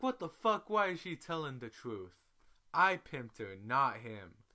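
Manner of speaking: outraged that she told the truth; shocked outrage. Retold or imitated. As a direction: blurt it out in loud disbelief. Shocked rant at friend's honesty.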